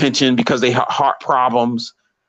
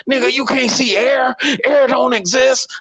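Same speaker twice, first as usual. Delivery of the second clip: incredulous; 11 semitones higher than usual. Acted. Mocking someone's absurd claim.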